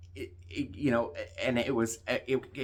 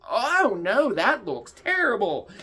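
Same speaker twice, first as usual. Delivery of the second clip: higher, louder, fake-sympathetic cashier; mock cashier voice; 10 semitones higher, 5 dB louder, slower than usual. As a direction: ham up her careless "oh no". Imitating the clueless cashier.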